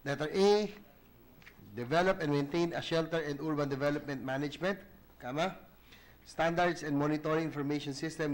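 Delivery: reading text aloud for the record, punctuation spoken; dictating. Acted. Reads amended subsection with punctuation.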